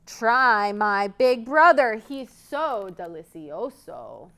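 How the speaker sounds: slow, coaxing little goat. Acted. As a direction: sell your brother temptingly. Goat tempts troll.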